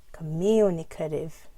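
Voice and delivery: communicative, MU strongest; primary and secondary stress. Shown as a demonstration. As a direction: step through communicative, weight on MU. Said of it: "primary and secondary stress".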